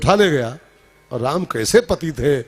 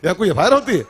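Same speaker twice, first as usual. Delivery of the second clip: a touch of a scornful clerk, higher; mock scolding; 4 semitones higher than usual. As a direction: scoff at the fool. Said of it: "कहा". (डाकबाबू की हल्की झिड़की)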